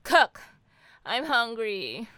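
a demanding loud yell; shouted order. Acted. Demanding husband cook dinner.

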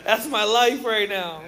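loud, drawn-out wail of recognition; slow, loud mock lament; acted exclamation. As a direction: play it up, loud and dragged out. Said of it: "and then I'm like".

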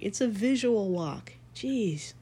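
high, slow, exasperated; exasperated retort. Retold or imitated. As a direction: roll your eyes and correct them. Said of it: "I'm like".

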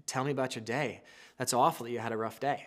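soft, low, sympathetic voice; caring wife. Acted. Wife handing husband a beer, tender sympathy. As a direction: gently invite him to unload.

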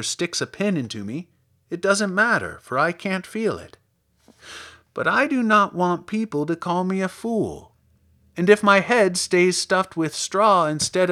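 lightly voiced scarecrow explaining himself; confiding scarecrow. Scarecrow explains his wish for brains, confiding. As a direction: confide earnestly, climbing in pitch toward the end.

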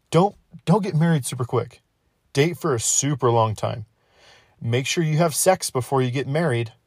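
a light send-up of a preachy know-it-all; lightly voiced busybody lecturing about marriage; mock advice giver. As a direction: parrot the marriage advice everyone hands out. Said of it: "I've heard this from many different people".

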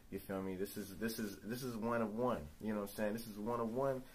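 fast promo shout-outs; hype man plug. Acted. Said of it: "Can I hire you as my hype man every day?".

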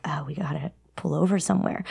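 urgent whisper, quick and soft. Retold or imitated. Girl urgently telling mom in the car, whispering. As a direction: hiss it out fast without voice. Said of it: "I just whispered to my mom".

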